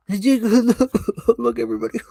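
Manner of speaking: high drawn-out call; cried out. Shown as a demonstration. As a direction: really cry it out this time. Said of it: "Oh, she cried?".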